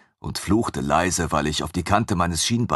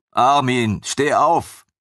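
sharp; 6 semitones higher, 5 dB louder, slower than usual. A narrator's reading. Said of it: "bat ich ihn scharf".

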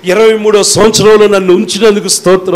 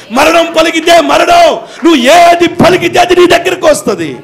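fiery preaching; 9 semitones higher than usual. Acted. Preacher drives home the power of words, climbing into a shout. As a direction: preach it harder with each line.

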